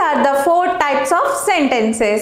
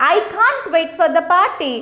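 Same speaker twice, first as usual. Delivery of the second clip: excited. Shown as a demonstration. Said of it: "something getting excited".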